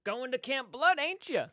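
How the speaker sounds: put-on high, loud crazy old doomsayer; loud, creepy old-timer warning; Crazy Ralph. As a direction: call it out like a creepy slasher-film crank. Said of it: "I would be Crazy Ralph".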